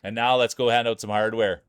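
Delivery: emcee reading out the final standings; light mock awards emcee; results announcement. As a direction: announce the placings to the crowd.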